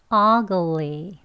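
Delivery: ugly with the stress on the first syllable; ugly demo. Shown as a demonstration. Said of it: "같이 해볼게요". (ugly 첫 음절 강세)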